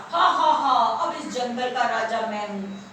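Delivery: lightly voiced gloating lion; boastful rival lion. Rabbit quotes the rival claiming the jungle, boastful. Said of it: "वो कह रहा था".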